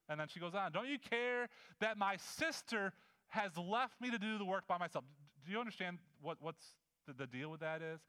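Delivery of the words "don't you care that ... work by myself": higher-pitched, indignant complaint; frustrated anger. Acted. Preacher as Martha complaining to Jesus about her sister, angrily frustrated. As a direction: draw out an aggrieved appeal. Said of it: "She is so angry and so frustrated".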